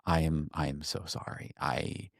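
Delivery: lightly emotional retold apology, halting. Friend apologizing to him for not replying, mildly emotional. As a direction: imitate a friend haltingly saying sorry, a touch choked. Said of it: "he got emotional".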